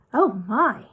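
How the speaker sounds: lightly voiced, pleased Moonface; Moonface delighted. A narrator's reading. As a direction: savour the sight of toffee.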